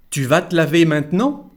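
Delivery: "vas te" as vat, "maintenant" as mant-nan; both contractions. Shown as a demonstration. Teacher modelling the sentence, "vas te" as vat, "maintenant" as mant-nan. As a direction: drop both Es in "te laver maintenant". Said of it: "we don't pronounce the letter E".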